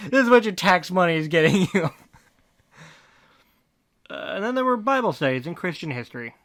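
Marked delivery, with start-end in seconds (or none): 0.1-1.9 raised, scornful jab; louder, sneering aside; loud mocking rant. Real, not acted.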